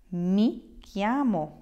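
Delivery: slow, careful "Mi chiamo" with a falling end; teacher modelling "Mi chiamo" slowly; slow model answer. Shown as a demonstration. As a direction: spell out "Mi chiamo" slowly for learners. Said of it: "You will answer".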